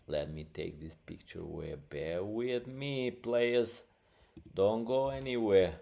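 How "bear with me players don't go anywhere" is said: calling out. Real, not acted. Host calls to viewers while searching.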